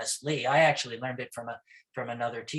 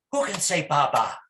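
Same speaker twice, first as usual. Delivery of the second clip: teacher prompt; 4 dB louder than usual. Shown as a demonstration. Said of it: "I'll do something like this".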